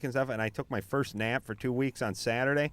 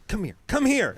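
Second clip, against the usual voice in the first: mock gruff summons; 8 semitones higher, 5 dB louder than usual. Guys dragging penis to next room.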